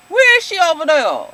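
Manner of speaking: Keisha. Retold or imitated. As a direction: mimic a country twang on the question. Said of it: "I can't even say it".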